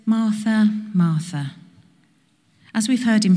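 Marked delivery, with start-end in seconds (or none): 0.1-0.7 lifted calling of the name, gentle but firm. Retold or imitated. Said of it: "gentle but firm". 0.9-1.5 gentle but firm. Retold or imitated. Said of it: "gentle but firm".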